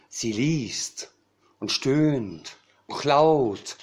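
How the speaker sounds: measured, lilting verse delivery; comic poem recital. Acted. Cabaret poet recites a raven's literary ambitions, comic poem recital. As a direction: savour each rhyme with pauses between lines.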